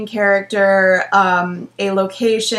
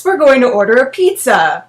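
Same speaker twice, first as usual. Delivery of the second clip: coaxing; 5 dB louder than usual. Acted. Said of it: "Smokey coaxed".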